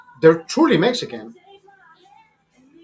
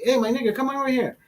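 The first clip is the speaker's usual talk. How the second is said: higher-pitched mock slang greeting; borrowed slang; 7 semitones higher than usual. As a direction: imitate someone calling a friend over in slang. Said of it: "I don't talk like that".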